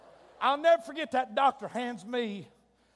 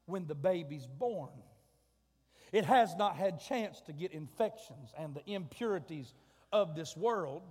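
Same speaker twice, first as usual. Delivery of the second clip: hushed emphasis; 6 semitones lower, 5 dB quieter than usual. Acted. Lowered voice for emphasis.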